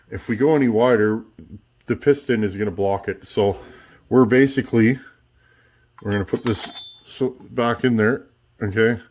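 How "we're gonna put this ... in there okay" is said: talking with a marker in mouth; speaking around a marker held in teeth; mouth full. Real, not acted. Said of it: "Sorry, I had the marker in my mouth".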